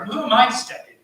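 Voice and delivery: high, loud mock protest; indignant rhetorical question, pitched well up; self-excusing bystander. Acts the bystander excusing himself.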